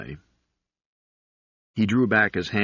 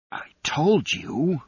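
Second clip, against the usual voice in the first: slow, high, strained stage whisper; whispered scolding; 8 semitones higher, slower than usual. A narrator's reading. Fibbin reproaches Galet while hiding, whispering. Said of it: "he whispered".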